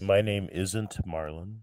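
slow, masked voice through effects; disguised voice. Acted. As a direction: voice changer on the mic. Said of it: "disguise your voice".

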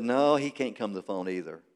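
low, soft, quick mock child reply; lightly voiced boy, keeping it down; hushed little boy. Little boy answers caller asking for mother, lightly hushed.

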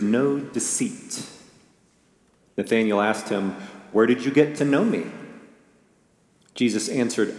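measured, solemn Bible reading; scripture reading. Acted. Pastor reading scripture to the congregation, solemn and measured. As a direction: read the Gospel aloud to the congregation.

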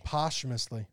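"Posthumously" said as POSS-tuh-mus-lee; corrected pronunciation. Shown as a demonstration. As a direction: repeat "Posthumously" with stress on the first syllable. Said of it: "Thank you for correcting me".

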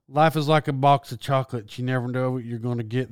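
half-hearted Forrest impression; bad Forrest Gump. Attempting Forrest's famous line for viewers, a weak impression. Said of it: "That's the worst Forrest Gump ever".

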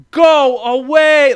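high drawn-out shout of go away; retold yell. Mother yelling at the intruding neighbor to go away. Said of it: "I had to yell at this woman".

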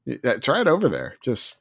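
high, hyped sales pitch; salesman pitch. Retold or imitated. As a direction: sell it like a pushy salesman. Imitating Microsoft pitching Game Pass.

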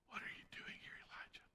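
very soft, fully whispered voice of God; hushed, intimate whisper; gentle whisper. A narrator's reading. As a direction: whisper the question gently, barely audible. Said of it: "there was a gentle whisper".

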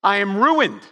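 acted, weighty despairing declaration; a touch of anguish; cry of agony. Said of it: "that's a cry of agony".

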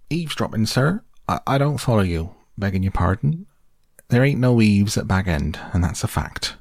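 high, rising, baffled rustic voice; bewildered servant Sam. Acted. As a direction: protest innocence as a puzzled, deferential gardener.

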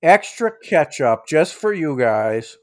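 slow, lightly voiced old lady; a hint of a drawn-out old-woman voice; old lady innkeeper. Innkeeper offering the guys extra ketchup, lightly voiced old lady. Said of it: "the same old lady's tending the counter".

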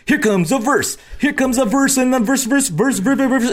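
high, repetitive verse imitation; a rapper. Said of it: "here's Kanye's thing".

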